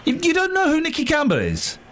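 really can't believe it. Real, not acted. Repeats question in disbelief.

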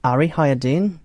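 lightly voiced Newcastle accent; short Geordie catchphrase, at an everyday pitch. Shown as a demonstration.

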